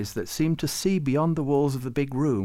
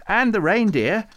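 much higher, louder eager cry; enthusiastic; 11 semitones higher, 8 dB louder than usual. A narrator's reading. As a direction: pipe up keenly. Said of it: "said Farouk enthusiastically".

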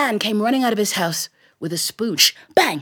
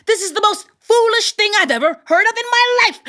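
exasperated tailor; 11 semitones higher than usual. Acted. Tailor shouts at in-laws.

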